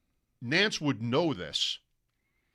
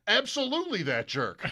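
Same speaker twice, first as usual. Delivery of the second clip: higher, laughing piled-on "jerk"; laughing agreement; 8 semitones higher than usual. Retold or imitated. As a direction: join in the joke with a laugh. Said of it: "his response was".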